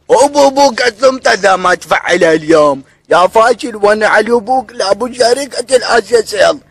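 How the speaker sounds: high, furious ranting shout; angry yelling. Acted. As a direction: yell insults at the agent. Caller explodes at the agent. (صراخ غاضب)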